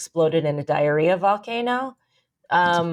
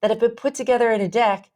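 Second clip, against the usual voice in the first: slow, emphatic, higher-pitched insistence; exasperated explaining; 5 semitones higher, slower than usual. Retold or imitated. Daughter telling dad his pictures are fake memes, exasperated. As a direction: spell it out word by word, retelling an argument.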